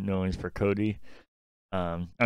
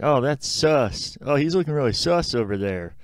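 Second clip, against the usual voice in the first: higher, louder, slowed mock Among Us player; mocking gamer kid; 5 semitones higher, 4 dB louder than usual. Mocking Among Us fans, a hammed-up kid gamer. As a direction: ham up a kid calling someone sus. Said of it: "be like".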